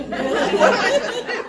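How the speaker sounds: high, loud, panicked dog voice; comic high-pitched exasperation; bewildered dog's voice. Acted. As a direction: play a helpless dog at a total loss. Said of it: "Sadiq is standing in the middle of the yard going".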